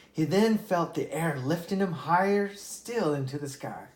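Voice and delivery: lively read-aloud storytelling voice; storybook narrator giving each animal a voice; story narration. A narrator's reading. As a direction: read it like a bedtime fable. Reads a fable aloud.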